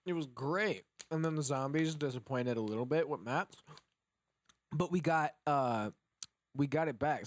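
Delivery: talking with water in mouth; mouthful of water, words muffled; water held in mouth. Real, not acted. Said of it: "I'm holding water in my mouth".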